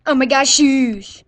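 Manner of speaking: drawn-out loud exclaim; slow loud wail. Pretend. Mock injured goofing for camera.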